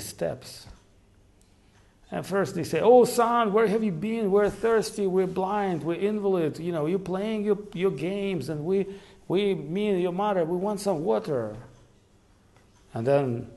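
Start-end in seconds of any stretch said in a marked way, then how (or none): 2.8-11.5 higher, louder call to a son who is late; calling out for their missing son; blind parents calling out. Retold or imitated. Blind old parents call out to their son, higher and louder.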